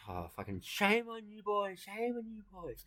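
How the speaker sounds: high, slow mock scolding; scolding widow. Widow scolding the catcaller, high and slow. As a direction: wag a finger in a high old lady voice.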